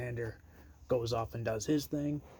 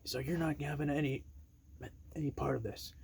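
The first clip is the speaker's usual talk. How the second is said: alarmed Pearce; 4 semitones higher than usual. Retold or imitated. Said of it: "And then Adam Pearce goes".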